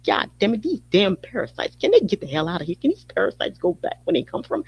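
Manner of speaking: a hammed-up angry local grumbling at the outsiders; mock exasperated outburst. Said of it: "we openly say".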